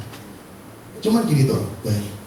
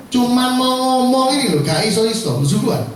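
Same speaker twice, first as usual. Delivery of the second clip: high, strained exasperation at being tongue-tied; retold frustration; 6 semitones higher than usual. Speaker recalls freezing at the shop counter, retold frustration. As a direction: replay the struggle to get words out, pitched up. Reenacts failing to speak while stuttering.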